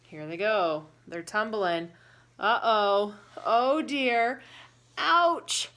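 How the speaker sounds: loud storyteller alarm; dramatic excitement. Acted. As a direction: build the drama of the crash. Dramatic tumbling carrots scene.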